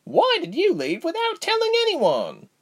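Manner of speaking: high, furious demand. A narrator's reading. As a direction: demand it with fury. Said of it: "Reshma asked with fury".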